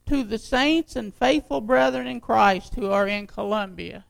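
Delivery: emphatic pulpit reading of a letter; scripture reading. Acted. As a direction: read it out to the congregation, punching key words. Reads the letter aloud to congregation.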